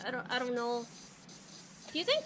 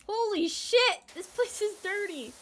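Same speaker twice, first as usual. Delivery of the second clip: startled exclaim; 6 semitones higher than usual. Real, not acted. Surprise at dirty game area.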